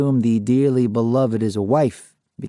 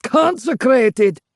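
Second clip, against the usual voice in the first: much higher, loud, slow bark; 11 semitones higher, 4 dB louder, slower than usual. A narrator's reading. Ghost barking at the interviewer's question. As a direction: spit the word out. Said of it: "he barks".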